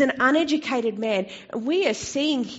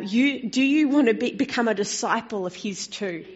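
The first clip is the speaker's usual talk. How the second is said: sarcastic. Retold or imitated. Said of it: "He's being quite sarcastic".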